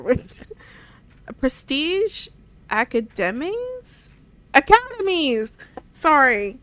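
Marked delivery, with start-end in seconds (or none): 1.4-4.1 slow, unsure, testing the word academies?; puzzled question. Shown as a demonstration. Gamer sounding out an odd word, slow and puzzled. 4.5-5.6 Academies! called out higher and louder, falling; triumphant exclaim. Shown as a demonstration. Gamer finally gets the word right, loud triumphant exclaim.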